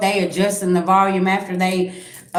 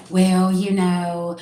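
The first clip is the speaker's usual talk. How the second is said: evasive hedge; much slower than usual. Retold or imitated. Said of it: "somebody over here saying".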